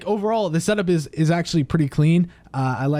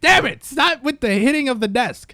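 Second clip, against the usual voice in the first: high, loud playful outburst; mock angry shouting; 6 semitones higher, 5 dB louder than usual. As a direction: yell it in fake exasperation. Annoyed at desk banging.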